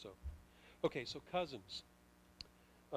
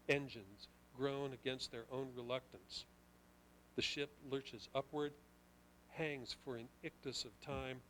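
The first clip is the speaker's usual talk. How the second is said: measured poetry reading voice; poem reading. Acted. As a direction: read it like a poem, weighing each line. Reads own poem aloud.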